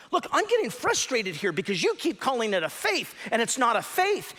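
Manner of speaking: imitating Dawkins' exasperated protest, pitch leaping up on the last faith; frustrated Dawkins. Dawkins losing patience with Lennox in a debate, mock exasperated. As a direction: play the fed-up debater, voice cracking high at the end. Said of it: "Dawkins is becoming increasingly frustrated".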